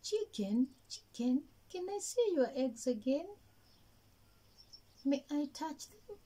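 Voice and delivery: a small rabbit begging sweetly; eager rabbit. Acted. Rabbit pleading with chicken to see her eggs.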